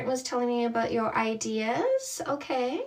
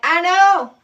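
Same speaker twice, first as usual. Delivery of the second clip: laughing; 6 semitones higher, 10 dB louder than usual. Retold or imitated. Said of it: "And I'm like".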